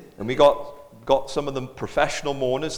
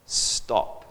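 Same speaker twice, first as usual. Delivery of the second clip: whispered stop; 2 semitones lower than usual. Retold or imitated. Repeating funeral signal.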